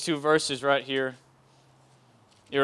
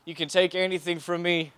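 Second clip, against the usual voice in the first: boastful prayer; 4 dB louder than usual. Retold or imitated. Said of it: "I used to pray, I said".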